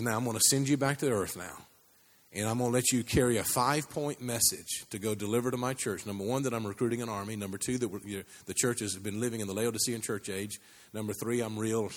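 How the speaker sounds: lightly voiced, low and gentle; loving father. Father sending a man back with a message, gently loving. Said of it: "loving voice of a father".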